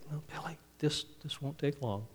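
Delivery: softly voiced, patient dad. Dad to three-year-old begging for candy, softly patient. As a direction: soothe a nagging child, keeping it quiet. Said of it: "he heard his dad say".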